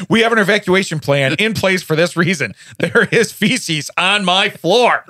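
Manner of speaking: hammed-up indignant announcement; mock alarm. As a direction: declare a domestic disaster, slowing heavily at the end. Mock emergency announcement at home.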